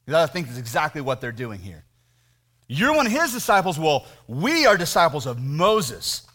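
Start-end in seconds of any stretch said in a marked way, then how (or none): 2.7-6.2 lecturing tone. Shown as a demonstration. Preacher voicing the Pharisees lecturing the healed man, lecturing tone. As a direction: lecture him like a superior. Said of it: "you need to hear this in a lecturing tone of voice".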